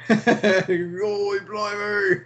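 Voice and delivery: high, hammed-up Australian accent; mock Australian accent. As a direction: exclaim in a badly faked Australian accent. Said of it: "It's just an Australian accent".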